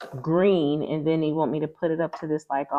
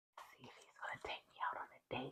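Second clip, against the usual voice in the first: hushed whisper, much quieter; 4 semitones lower, 24 dB quieter than usual. Wondering whether her husband will take her on a date, whispering. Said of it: "I have to whisper that".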